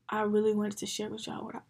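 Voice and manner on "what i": talking through hiccups. Real, not acted. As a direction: hiccup interrupting the words. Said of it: "I got hiccups".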